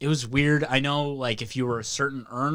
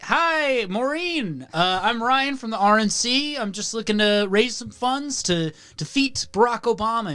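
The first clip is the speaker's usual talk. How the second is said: high, bright sales voice; chirpy telemarketer; 5 semitones higher than usual. Retold or imitated. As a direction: sell it with fake cheer.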